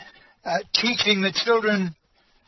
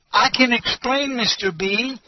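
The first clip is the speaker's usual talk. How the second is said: a hint of a rattled higher voice; flustered protest; 4 semitones higher than usual. Teacher pleads with the pastor, mildly rattled. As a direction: blurt it out, lightly flustered. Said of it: "she said".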